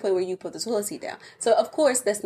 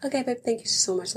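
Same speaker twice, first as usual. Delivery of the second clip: mock grateful husband; 5 semitones higher than usual. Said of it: "He's like".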